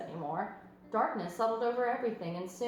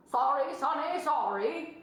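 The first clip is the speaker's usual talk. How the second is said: higher goose voice, louder; fussy goose; 5 semitones higher, 3 dB louder, slower than usual. A narrator's reading. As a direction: flap out a goose's excuse. Goose character voice.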